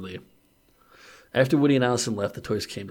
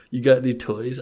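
asked seductively; 2 semitones higher, 5 dB louder than usual. Acted. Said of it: "Allison asked seductively".

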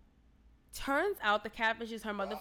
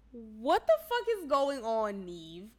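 incredulous; 3 dB louder, slower than usual. Retold or imitated. Viewer appealing to the show's host, incredulous. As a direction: drag it out in exasperated disbelief. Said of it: "I was like".

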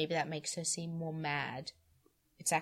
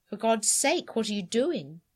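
higher, louder alarmed cry; 5 semitones higher, 9 dB louder than usual. A narrator's reading. Husband bursts in and cries out in alarm. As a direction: call out in shock at what you see. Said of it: "he cried".

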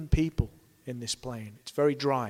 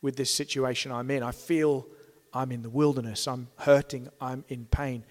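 honest lament; 3 semitones lower, 3 dB quieter than usual. Pretend. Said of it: "confiding in a brother ... and saying".

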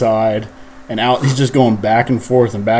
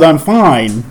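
mock podcast intro; 4 semitones higher, 4 dB louder than usual. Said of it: "It starts off with".

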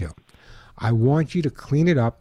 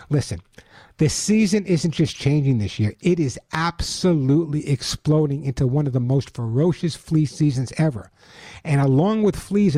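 upbeat radio ad read; chipper 1950s ad; 3 semitones higher than usual. Acted. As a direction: sell it bright and eager. Host reads his sponsor ad.

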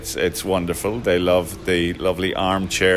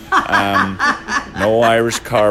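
laughing; 3 semitones higher, 5 dB louder than usual. Real, not acted. Laughs while stating pub rule.

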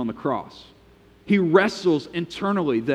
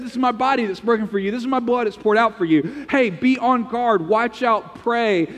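higher, pressing retelling; a higher, insistent plea; urgent Jesus; 6 semitones higher than usual. Acted. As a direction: urge them, lifted and intense. Preacher re-quoting Jesus with intensity.

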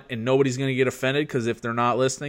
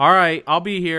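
calm, polite husband reassuring his wife; 4 semitones higher, 6 dB louder than usual. Real, not acted. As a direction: reassure her in a careful husband voice. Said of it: "I like your husband voice".

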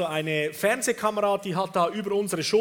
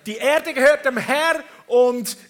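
proclaiming scripture; 4 semitones higher, 5 dB louder than usual. Retold or imitated. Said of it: "das heißt".

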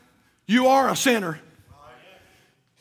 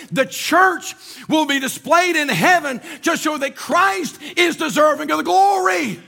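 raised, ringing preacher's cry; fiery preaching; 2 semitones higher than usual. Acted. Pastor lifting his voice to the congregation in full preach. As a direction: proclaim it to the whole church.

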